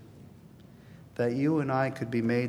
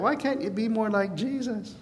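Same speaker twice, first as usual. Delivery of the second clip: mock nagging parent; 8 semitones higher than usual. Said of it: "James would have heard that".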